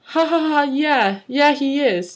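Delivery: high pretend laugh, agreeing; acted laughter. A narrator's reading. Doll joining the bullies' mockery, high acted laughing. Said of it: "Doll laughed".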